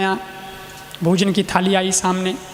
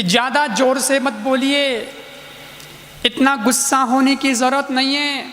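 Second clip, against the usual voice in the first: soothing wife; 3 semitones higher than usual. Retold or imitated. Wife calms angry husband.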